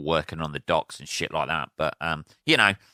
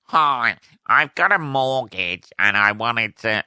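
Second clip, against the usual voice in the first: annoying caller voice; 3 semitones higher, 4 dB louder than usual. Retold or imitated. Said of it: "you can't be doing your fucking voice".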